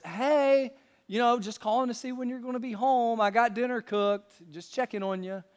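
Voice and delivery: a gentle, caring wife checking in; sweet wife's tone. Shown as a demonstration. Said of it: "a different tone could sound like this".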